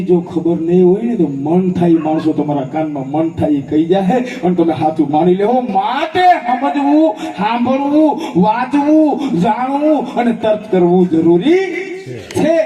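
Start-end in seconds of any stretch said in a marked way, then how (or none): 5.6-12.6 each verb slow and weighty; slow, deliberate emphasis; slow emphatic list. Acted. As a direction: drive home the lesson word by word. Moral point, stretched slowly.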